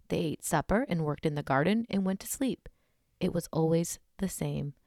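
measured scary-story reading; story narration. A narrator's reading. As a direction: read it like a campfire tale. Reads a scary story aloud.

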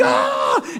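hammed-up yelp of terror; mock scream. Man in the water lets out a mock scream of fright. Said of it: "I'm freaking".

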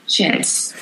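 breathy whispered swear under the breath; hushed dismayed whisper; whispered curse. Retold or imitated. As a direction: mutter it as the penny drops. Realizing passcode is needed.

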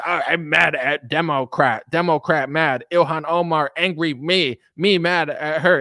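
a hint of the dumb caveman voice. Mocking angry partisan talk, lightly voiced caveman. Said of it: "It's like caveman content".

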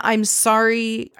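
drawn-out, slow mock apology; half-hearted apology; mock sorry. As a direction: stretch the sorry, not really sorry. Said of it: "very apologetic, but in a".

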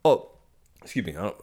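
coughing after swallowing a bug; choked up from a bug; just swallowed a bug. Real, not acted. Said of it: "I swallowed a bug".

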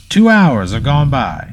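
drawn-out, ringing announcer call; slow, ceremonious proclamation; mayor's announcement. Acted. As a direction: call out the time to a crowd, stretching it. Mayor announcing time to the crowd.

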